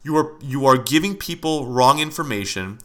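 heated rant, pitch pushed up, stressing not; real anger building in a podcast rant; getting angry. Real, not acted. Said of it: "Now I'm getting angry".

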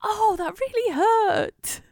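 unvoiced, slow hurt whisper; pained inner whisper. Hiding pain from the baby, pained whisper. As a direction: whisper the pain you hide. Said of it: "But inside, you're like".

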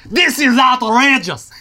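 slow, loud mock French indignation; hammed-up outraged Frenchman; French accent.

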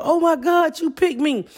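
very high, breathless mock fan squeal. Fan picked for the live chat, high mock squeal. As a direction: squeal like a fan who just got picked. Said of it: "how excited people were".

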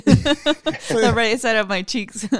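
talking with half her mouth numb; numb mouth after dentist. Real, not acted. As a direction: numb cheek from the dentist, words a bit slurred. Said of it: "half of her mouth is just numb".

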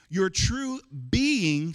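"being" drawn out and stressed; slow stressed repeat. Shown as a demonstration. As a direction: press on "being" again, slowly. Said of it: "I wanna say that again".

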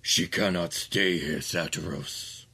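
slow, low royal command; a hint of a stern demon king. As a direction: lay down the law slowly. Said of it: "he turns to Satiros and he says".

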